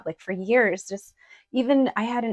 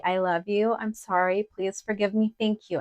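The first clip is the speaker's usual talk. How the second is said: gentle mantra. Shown as a demonstration. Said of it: "you could just in your head say".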